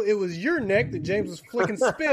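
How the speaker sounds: ordinary delivery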